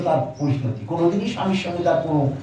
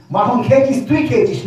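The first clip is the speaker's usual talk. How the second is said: louder, higher angry interrogation; scolding mother; 4 semitones higher, 4 dB louder than usual. Retold or imitated. Yashoda grilling her son over stolen butter, angry. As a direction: grill the child like a furious mother.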